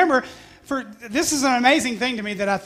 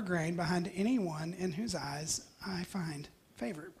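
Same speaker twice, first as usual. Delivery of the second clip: whisper; 3 semitones lower, 9 dB quieter than usual. Acted. Reading Ruth's humble request.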